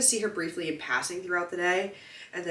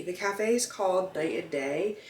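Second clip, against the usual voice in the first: blocked nose, talking through congestion; stuffy nose. Real, not acted. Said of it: "I'm, like, so stuffy".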